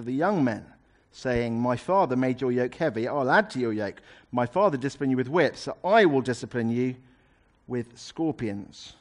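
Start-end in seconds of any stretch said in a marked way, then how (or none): 1.6-8.9 harsh. Acted. King threatening his people, mildly harsh. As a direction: lean into the threat without shouting. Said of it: "The king answered the people harshly".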